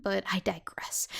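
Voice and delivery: quick hushed aside; whispered aside. Real, not acted. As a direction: drop to a whisper. Whispered aside after rant.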